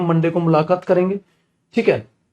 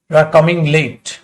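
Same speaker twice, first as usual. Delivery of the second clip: slow, word by word, each word laid out for the class; teacher spelling out the sentence slowly for students, slow dictation; 3 dB louder, much slower than usual. Shown as a demonstration. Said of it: "या मैं ऐसे लिखता हूं".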